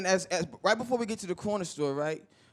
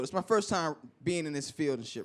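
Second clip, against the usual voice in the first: usual speaking voice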